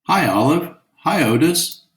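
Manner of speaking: put-on girls yelling. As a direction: call out a bright greeting. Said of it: "the girls yelled".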